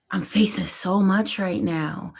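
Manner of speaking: slow, tearful voice giving out to a whisper; real tearful. Real, not acted. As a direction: choke up and let the words fade into breath. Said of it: "I'm crying because".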